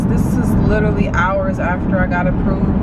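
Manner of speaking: tearful, shaky worry in the car; talking through tears, doubting herself; crying on camera, overwhelmed; real crying. Real, not acted. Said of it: "y'all gonna see me crying".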